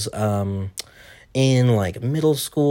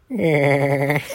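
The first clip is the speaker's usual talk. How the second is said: cartoon laugh impression; 5 semitones higher than usual. Shown as a demonstration. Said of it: "do, do his laugh".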